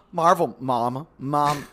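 lightly voiced viral mom, rising; a hint of a gushing mom; viral woman impression. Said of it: "as that one woman said in the video".

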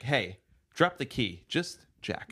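movie quote. Retold or imitated. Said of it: "someone's like".

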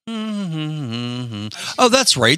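high, dawdling oblivious voice; mock clueless driver. Imitating someone merging onto a highway, mock clueless. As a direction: play a driver slowly catching on. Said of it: "turn and you're like".

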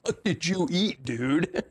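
slow, laughing through the question. Retold or imitated. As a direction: mimic the wife cracking up at him. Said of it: "like, laughing".

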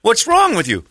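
high-pitched mock yell of disbelief; screaming at TV. Viewer berating the victim on TV, mock screaming. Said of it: "I'm screaming at the T V".

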